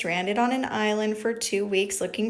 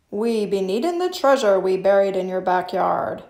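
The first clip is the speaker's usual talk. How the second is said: louder gruff pirate demand; pirate talk; 5 dB louder than usual. Acted. Captain Braidbeard asking for buried treasure, loud pirate voice.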